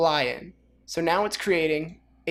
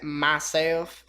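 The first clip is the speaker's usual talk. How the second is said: myself in a light Texas twang; Texas accent. Shown as a demonstration. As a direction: drawl myself like a Texan. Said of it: "Here's my Texas accent".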